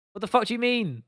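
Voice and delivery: high disbelieving outburst; can't believe what he's reading; incredulous. Real, not acted. Incredulous reaction to chat.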